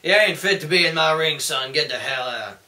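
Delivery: put-on a so-so Southern accent telling someone off. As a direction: growl it like a Texan boss. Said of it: "That's my real Southern accent".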